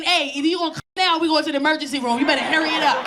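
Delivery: fast, urgent mock warning; knees warning the brain. Comic voicing his knees warning his brain, fast urgent. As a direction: rattle it off like an alarm. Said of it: "which told my brain".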